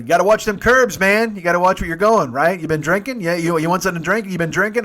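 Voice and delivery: high, loud ribbing about the curbs; loud jokey ribbing from young guys; teasing young dudes. Retold or imitated. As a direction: needle him like a cocky kid. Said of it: "And there's like".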